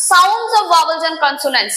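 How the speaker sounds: very slow, weighted phrase; slow emphasis. Shown as a demonstration. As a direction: spell out the key rule slowly. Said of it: "vowel consonant দেখে আমরা করি না".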